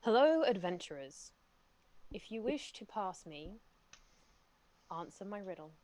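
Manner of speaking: gentle riddling armor voice; pretty voice. Acted. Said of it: "in a pretty voice it says".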